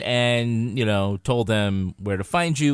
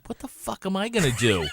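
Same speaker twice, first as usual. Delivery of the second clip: laughing retold panic; 8 semitones higher, 4 dB quieter than usual. Retelling his own panic, laughing.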